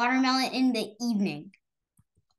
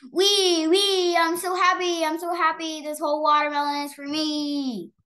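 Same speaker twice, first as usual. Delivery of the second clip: high, loud squeals of joy; gleeful child; 5 semitones higher, 4 dB louder than usual. Acted. Girl slides down the giant watermelon, squealing high with glee. Nora sliding down happily.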